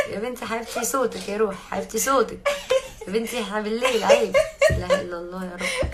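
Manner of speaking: laughing, teasing scolding. Real, not acted. Laughingly telling off the noisy neighbour at night.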